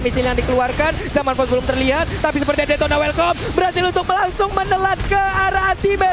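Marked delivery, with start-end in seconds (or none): 2.2-6.1 fighting game announcer. Real, not acted. Co-caster hypes the swallow.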